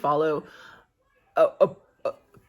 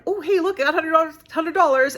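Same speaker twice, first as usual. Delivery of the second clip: high, loud, gleeful imitation of a lucky Italian; hammed-up excited Italian grabbing the cash; mock Italian; 10 semitones higher, 6 dB louder than usual. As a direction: pitch it way up like someone pocketing a windfall. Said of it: "an Italian would be like".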